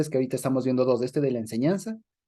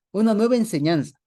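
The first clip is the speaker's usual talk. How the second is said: amazed exclamation; 6 semitones higher, 4 dB louder than usual. Retold or imitated. Crowd amazed at the teaching.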